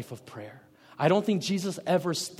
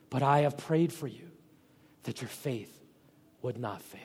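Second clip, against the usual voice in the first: tender Jesus. Retold or imitated. Jesus speaking tenderly to Peter.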